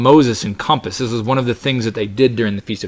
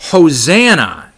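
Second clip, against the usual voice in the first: slightly raised, drawn-out exclamation; mild cry out; 5 semitones higher, 5 dB louder, slower than usual. Acted. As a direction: cry it out slow and a little high, quoting scripture. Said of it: "It says they cried out".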